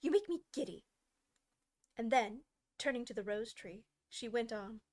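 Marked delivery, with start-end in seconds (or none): 0.0-0.8 high, loud complaint; irritated shout. Acted. Queen annoyed by bowing gardeners, loud.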